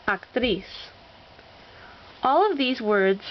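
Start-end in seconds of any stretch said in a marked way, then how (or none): 0.1-0.6 actriz with TRIZ stressed; stress on last syllable. Shown as a demonstration. Teacher showing examples of rule two, stress on last syllable. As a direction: land on the final syllable of actriz. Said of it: "accent on the last syllable".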